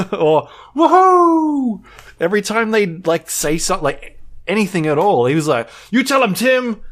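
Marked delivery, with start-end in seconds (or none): 0.7-1.8 long, high, loud whoop; screaming. Retold or imitated. Guy in the crowd cheering every announcement, screaming whoop. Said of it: "literally screaming out every ten seconds". 5.9-6.8 high, loud shout of encouragement; screaming heckle. Retold or imitated. Audience member cheering on Tim at the presentation, screamed. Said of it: "literally screaming out every ten seconds".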